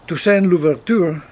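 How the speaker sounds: French name in a Spanish accent; attempted French pronunciation. Real, not acted. Spanish speaker introducing a Haitian figure, attempted French pronunciation. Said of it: "mi pronunciación francesa, deja mucho que desear".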